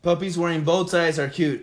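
can't hear own voice, headset noise; temporarily deafened. Real, not acted. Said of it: "I can't hear anything".

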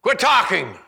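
high loud scolding; mock rebuke. Crowd hushing Bartimaeus in mock French, loud scolding. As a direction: hush him harshly. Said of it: "They spoke French".

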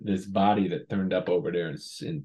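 lightly hammed Chicago police voice; Chicago cop accent. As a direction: play a Chicago cop feeling out a suspect. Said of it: "whenever we do cop stuff, it's natural just to go to Chicago".

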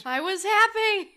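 high whiny complaint; whiny wail. Pretend. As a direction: whine it high. Voicing revived fossil Pokemon.

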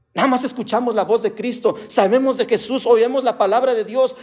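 high, insistent sermon delivery; fervent preaching. Real, not acted. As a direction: preach it with rising urgency, phrase after phrase. Preaches to congregation.

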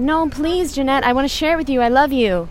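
mild imitation of a pleading sister; imitating little sister. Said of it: "And then she said".

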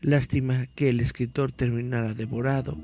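dramatic horror story reading; story narration. Acted. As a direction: read it like a campfire tale. Reads horror story aloud.

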